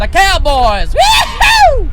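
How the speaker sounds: hammed-up cowboy whoop. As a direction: yell it like a rodeo cowboy. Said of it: "That's your cowboy voice?".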